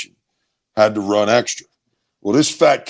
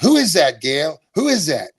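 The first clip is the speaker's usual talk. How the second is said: lightly voiced mother, pitched up; higher, mildly acted motherly query; mother in the background; 5 semitones higher than usual. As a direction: imitate mom butting in with a question. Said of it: "I could hear my mother in the background".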